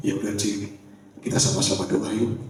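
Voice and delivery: soft, low coaxing; retold quiet suggestion to pray together; gentle invitation. Loan collector gently invites the debtor to pray, softly.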